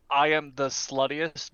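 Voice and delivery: ordinary delivery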